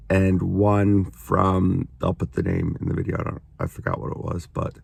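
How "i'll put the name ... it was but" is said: quick whispered aside. Real, not acted.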